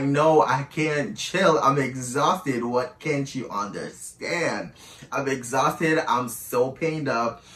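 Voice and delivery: slow, weary retold refusal; exasperated. Exhausted woman retelling her refusal to her partner, exasperated. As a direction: drag out the words in worn-out protest.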